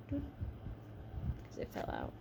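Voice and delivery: slow breathy throwaway whisper; whispered aside. Real, not acted. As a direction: drop it to a sly slow whisper. Joke aside after hand line.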